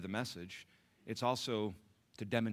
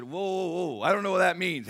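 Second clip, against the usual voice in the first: surprised; 10 semitones higher, 14 dB louder than usual. Retold or imitated. Preacher acting his surprised reply.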